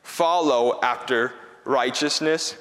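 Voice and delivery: slow solemn reading of scripture. Shown as a demonstration. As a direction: read the verse slowly and reverently. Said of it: "it says this".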